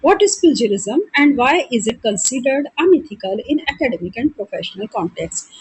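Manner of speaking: reading the question out slowly and deliberately; slow, measured question read; slow exam dictation. Acted. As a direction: dictate each word for students to copy. Reads exam question aloud slowly.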